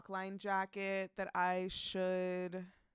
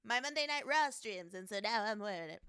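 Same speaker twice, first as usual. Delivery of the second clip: hammed-up little bit voice; silly put-on voice. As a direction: playfully announce it in a mock voice. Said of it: "I don't know why I'm doing that voice".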